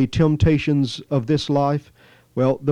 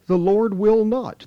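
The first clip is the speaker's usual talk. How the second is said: The Lord WILL not, raised high on will; stressed will not; 6 semitones higher than usual. Real, not acted. Preacher to congregation, will raised high and firm. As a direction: hit will as a firm promise.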